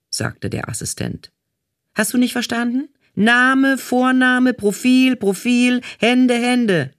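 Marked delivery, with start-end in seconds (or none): 1.9-6.9 much higher and louder, hammering each word; furious casting boss shouting the routine; exasperated shout. A narrator's reading. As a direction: yell it at someone who wasn't listening. Casting manager repeats order, exasperated.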